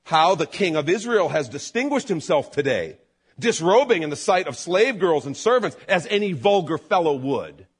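mock the king with scorn; sarcastic. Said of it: "listen to this sarcasm".

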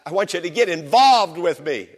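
pleading psalmist. Retold or imitated. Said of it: "the psalmist was saying".

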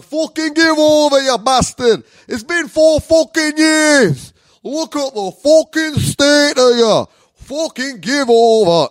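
loud, high, drawn-out telling-off; mock angry scolding. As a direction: yell it as an exasperated partner, hammed up. Imitates fed-up partner scolding him.

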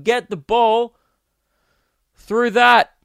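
high, loud caveman-simple commands; mock sports shout. Breaking sport down as ridiculous, mock shout. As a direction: shout it like an excited fan.

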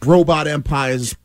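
slow Boston robot empires for umpires; Boston accent. Shown as a demonstration. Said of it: "So we talk out here in Boston".

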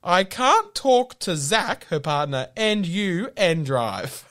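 lightly voiced stressed sister; a hint of the stressed sister. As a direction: drag the words out, overwhelmed. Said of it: "the quote was".

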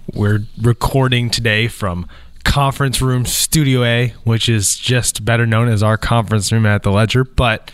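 stuffy, allergy-clogged nose; nasal from allergies. Real, not acted. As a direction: talk through congested sinuses. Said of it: "you can probably hear my extra allergy nasally voice".

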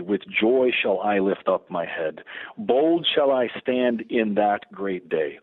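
slow, measured reading of sacred verse; spoken hymn, unhurried and reverent; prayerful hymn recitation. Real, not acted. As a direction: recite the stanzas deliberately, line by line. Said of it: "pray or say those first two stanzas".

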